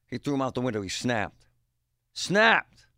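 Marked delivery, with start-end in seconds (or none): 2.1-2.9 sudden loud snap. Retold or imitated. Retelling how dad snapped, a loud high burst. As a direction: punch the word out loud and high.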